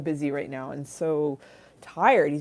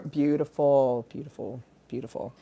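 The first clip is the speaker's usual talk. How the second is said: dreamy swooning fade; 3 semitones lower than usual. Real, not acted. Swooning repeat fading.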